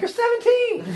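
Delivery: put-on a half-joking, fed-up dad protesting to his teenager; exasperated dad. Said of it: "I'm like".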